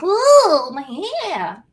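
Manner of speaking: high whiny "ooh"; whiny complaint. Retold or imitated. Woman snagging her hair, mock whining. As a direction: pout out a little pained whine. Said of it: "she would literally be like".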